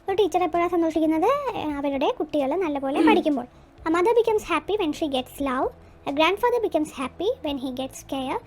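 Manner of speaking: very slow, word by word for copying; slow dictation. Shown as a demonstration. Teacher reading the answers aloud for pupils to copy, slowly. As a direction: read each answer slowly so pupils can write it. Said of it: "reading answers as dictation".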